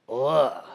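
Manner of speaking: low, drawn-out groan of disgust; mock-disgusted low groan; disgusted ugh. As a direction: groan "ugh", pitched well down. Reacting to Herod marrying brother's wife.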